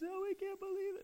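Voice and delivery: high, hammed-up disbelief; preacher acting the family in tears of joy; overwhelmed family. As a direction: squeak out the disbelief.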